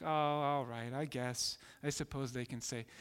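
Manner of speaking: low, grudging, trailing off; reluctant Father. Retold or imitated. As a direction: give in unwillingly, sighing it out. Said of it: "And then the Father's like".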